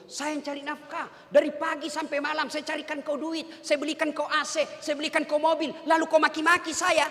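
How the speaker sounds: a proud husband boasting, lightly voiced; hint of a self-important husband; arrogant husband. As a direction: play the puffed-up provider scolding his wife. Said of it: "setan yang ngomong begitu".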